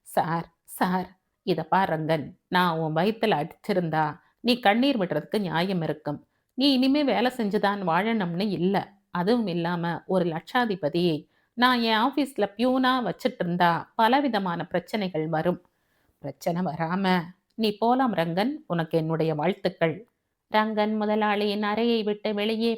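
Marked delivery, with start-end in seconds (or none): 0.0-1.1 slow, drawn-out plea, a touch tearful; tearful pleading. Acted. Dismissed peon appeals to his boss, slow tearful plea. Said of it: "ரங்கனுடைய கண்கள் கலங்கின". 1.4-20.0 lightly voiced boss, reasoning firmly; firm employer. Boss tells newly rich peon to stop coming, firm and reasoned.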